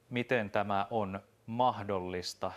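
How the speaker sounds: slow, faltering shocked question; the commander stumbles over his words; stammering. Acted. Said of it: "komentaja änkytti". (änkyttäen, hitaasti)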